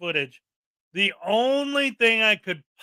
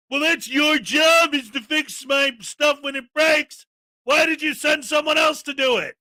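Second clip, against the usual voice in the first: mocking a complainer; 4 semitones higher than usual. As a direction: parody an entitled caller, raised voice. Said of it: "mock frauditor complaining to council".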